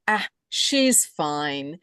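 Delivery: slow, offhand "Ah, she's fine."; blasé. Retold or imitated. Soul glancing at her body in bed, blasé and slow. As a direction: shrug it off lazily, unconcerned. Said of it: "Very blasé".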